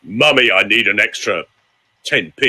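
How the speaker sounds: mummy asked in a low, level voice; low-voiced child's request. Coach voicing a child asking mummy low. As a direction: ask for money without any whine.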